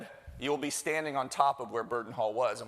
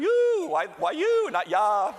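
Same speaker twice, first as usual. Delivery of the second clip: mock crowd yell, much higher and louder; imitating the crowd's yell; 8 dB louder, slower than usual. Host imitates the audience's selfie cheer with a mock yell. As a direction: ham up the audience's wild selfie shout. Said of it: "Everybody does".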